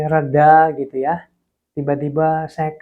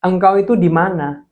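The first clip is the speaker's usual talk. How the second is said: angry complaint to God; 4 semitones higher, 5 dB louder than usual. Retold or imitated. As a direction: throw the question at heaven in protest. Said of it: "Saya ngomong gini". (protes marah kepada Tuhan)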